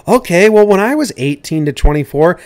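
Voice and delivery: high-pitched, worked-up rebuttal; indignant rant. Acted. Cohost answering the minor leaguers' complaint, indignant. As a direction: build an exasperated comic tirade.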